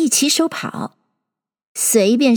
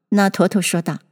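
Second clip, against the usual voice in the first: ordinary delivery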